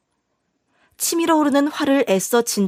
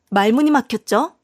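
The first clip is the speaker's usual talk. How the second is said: usual speaking voice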